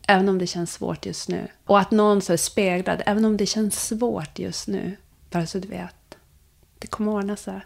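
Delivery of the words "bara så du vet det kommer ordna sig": tender reassurance. Shown as a demonstration. Reassuring a singing student.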